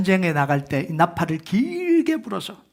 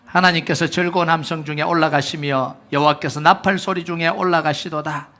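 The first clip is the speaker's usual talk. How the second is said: congregational reading; 4 dB louder than usual. Shown as a demonstration. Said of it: "같이 함께 읽겠습니다".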